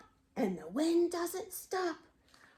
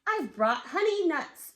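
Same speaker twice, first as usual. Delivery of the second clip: grinning badger; 3 semitones higher than usual. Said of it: "badger says with a grin".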